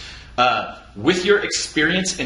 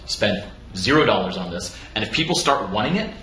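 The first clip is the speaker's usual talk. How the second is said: Derek Sivers quote; 5 semitones lower than usual. Retold or imitated. Cohost quoting Derek Sivers' advice, low and relaxed. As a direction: start on a whisper, then calm and low. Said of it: "And what, he's like".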